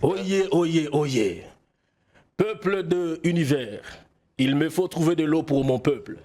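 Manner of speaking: lightly voiced king's proclamation; town crier. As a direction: proclaim like a king calling his people. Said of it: "faire la voix ... du roi Jaco".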